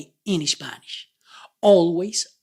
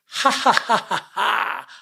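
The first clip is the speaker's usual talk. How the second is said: big open ha-ha laughing, higher; loud ha laughter; 4 semitones higher than usual. Shown as a demonstration. Teacher demonstrating the A laugh, loud ha-ha. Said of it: "the vowel A is a laughter very, very loud".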